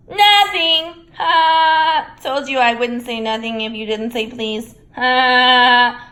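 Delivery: high, loud triumphant taunt; gloating poltergeist. A narrator's reading. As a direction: crow over him. Peeves gloating.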